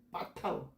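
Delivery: 빠타흐 with a tense, forceful opening B; 빠타흐 begun on a doubled, unaspirated 빠; hard first consonant. Shown as a demonstration. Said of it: "이렇게 읽어야 돼".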